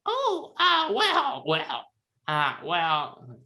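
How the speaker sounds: put-on high wavering old woman; quavering, very high elderly voice; very old faint voice. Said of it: "forget how to do an old person voice".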